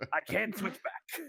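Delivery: whispered, breathy pirate voice, in character. Retelling how a former museum pirate still talks: imitating a pirate voice. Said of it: "he can't stop doing the voice".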